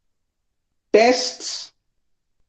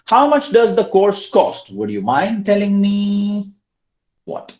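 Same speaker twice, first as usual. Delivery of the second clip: slow, raised reading of the prompt; slow model question; 6 semitones higher, 3 dB louder, slower than usual. Shown as a demonstration. Teacher reading the next exercise aloud slowly. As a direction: read the prompt slowly and clearly. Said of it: "let's try this third one".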